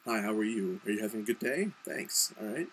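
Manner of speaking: neutral American service-worker accent; standard American accent. Shown as a demonstration. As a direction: greet customers in general American. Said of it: "in the American accent".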